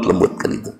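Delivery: soft demonstration. Shown as a demonstration. Preacher showing gentle speech to the congregation, whispered. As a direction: show what gentle speech sounds like. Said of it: "Kudu lembut".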